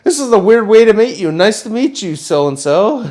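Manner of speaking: high, laughing awkward greeting. Retold or imitated. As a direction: greet them through embarrassed laughs.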